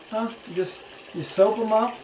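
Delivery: high, loud and eager; excited. Real, not acted. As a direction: pitch it up, enthusing. Excited demo of washing.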